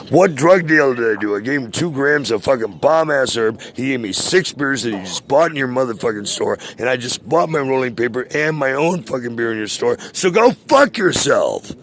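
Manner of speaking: venting hard, climbing into a shout; real angry rant. Real, not acted. Furious rant at the store.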